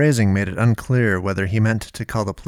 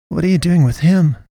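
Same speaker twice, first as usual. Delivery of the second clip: high and louder, anxious; alarmed Naomi; 9 semitones higher, 5 dB louder than usual. A narrator's reading. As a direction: demand it, alarmed.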